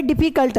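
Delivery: "डिफिकल्ट" spoken as two chunks, डिफि-कल्ट; said in two parts. Shown as a demonstration. Teacher showing students the syllable count, "डिफिकल्ट" in two beats. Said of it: "दो बार में बोला गया".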